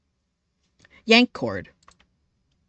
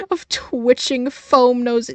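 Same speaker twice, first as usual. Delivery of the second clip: high, slow words through laughter; laughing; 7 semitones higher, 4 dB louder, much slower than usual. Real, not acted. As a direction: let the laugh break the words. Laughing breaking up mid-line.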